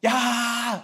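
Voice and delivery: high, loud single yell; imagined yell. Pretend. Pastor imagining Israel yelling at Jericho, high and loud. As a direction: let out a wild battle yell. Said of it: "라고도 외칠 수 있었겠죠".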